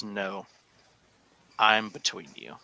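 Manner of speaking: level, unruffled refusal; calm as can be. Acted. Bartender Felix stands between two rivals, calm as can be. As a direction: hold firm without raising your voice. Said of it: "Calm as can be".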